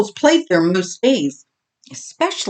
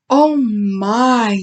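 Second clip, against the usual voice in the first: consoling; 3 semitones higher than usual. Acted. Oakley comforting Bully, gentle consoling. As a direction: soothe the little one. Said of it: "she consoled".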